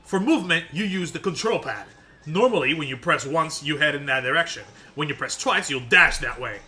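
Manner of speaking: loud, fast read of Piccolo's lines; lightly voiced stern Piccolo. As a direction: bark the instructions like a gruff mentor. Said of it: "Piccolo don't speak like that".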